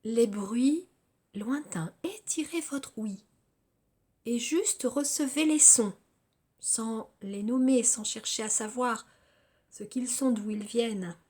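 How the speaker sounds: measured yoga nidra guidance with long pauses between phrases; guided relaxation. Acted. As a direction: guide them through body and senses, phrase by phrase.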